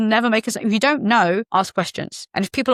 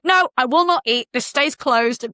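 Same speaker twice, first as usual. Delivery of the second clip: flamboyant star; 3 semitones higher than usual. Retold or imitated. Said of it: "flamboyant way that it wasn't aggressive".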